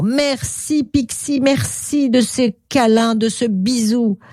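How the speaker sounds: contented storybook crocodile; Croque-en-Bouche, so happy. Acted. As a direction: thank a new friend with delight. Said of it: "Croque-en-Bouche aussi était tellement content".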